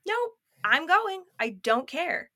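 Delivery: high, emphatic refusal, slowly laid down; defiant, done putting up with it; fed-up defiance. Retold or imitated. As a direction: retell putting your foot down. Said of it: "I was just enough".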